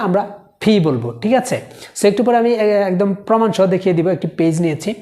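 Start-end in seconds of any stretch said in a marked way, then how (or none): 0.1-1.1 ফি said with a puff of air; ফি, aspirated. Shown as a demonstration. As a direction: push air on ফি. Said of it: "পি কে কখনো পি বলবো না".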